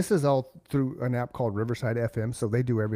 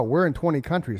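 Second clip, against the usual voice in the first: ordinary talk, nothing marked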